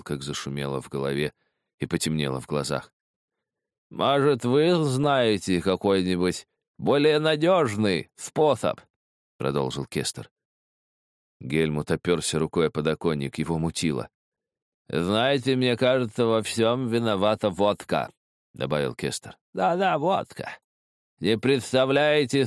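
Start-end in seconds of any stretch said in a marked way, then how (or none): 3.9-8.8 high, slow, quavering drawl; rattling, lisping voice. A narrator's reading. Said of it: "дребезжащий, слегка шепелявый голос". 14.9-18.1 high, slow, quavering drawl; rattling, lisping voice. A narrator's reading. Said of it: "дребезжащий, слегка шепелявый голос".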